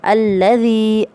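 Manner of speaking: very slow, drawn-out Quranic recitation. Shown as a demonstration. Teacher reading the first example to students, slow drawn recitation. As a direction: stretch every vowel as in tajweed. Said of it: "अगर वफ़ करेंगे".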